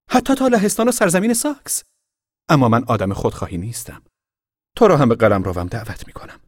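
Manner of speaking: put-on very high, then lofty inviting boy; grand boast. A narrator's reading. Boy boasting then inviting the girl into his realm. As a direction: boast big, then offer generously.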